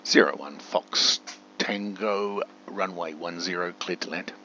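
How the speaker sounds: tower radio command. Pretend. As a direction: clear air traffic control phrasing. Issuing tower command to game.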